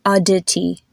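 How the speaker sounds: "Aditi" the American way, harder d and t; Americanized "Aditi" with pronounced consonants; American pronunciation. Shown as a demonstration. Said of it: "with an American pronunciation".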